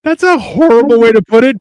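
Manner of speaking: amused reaction to his joke; laughing. Real, not acted. Laughing at his friend's quip about trial and error. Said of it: "your trial, I'm error".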